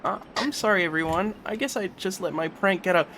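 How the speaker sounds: high cartoon pony apology; squeaky cartoon pony saying sorry; Rainbow Dash voice. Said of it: "sound like Rainbow Dash".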